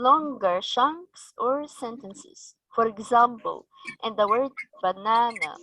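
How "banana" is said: BANANA stressed on its middle syllable; second-syllable stress. Shown as a demonstration. Teacher giving a word-stress example, BANANA stressed in the middle. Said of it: "it's on the second syllable".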